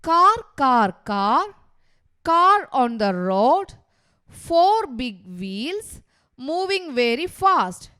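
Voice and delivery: slow, chant-like verse with stretched line endings; poem recital. Shown as a demonstration. Teacher reading a car poem to pupils, measured recital. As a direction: recite it line by line, punching first words.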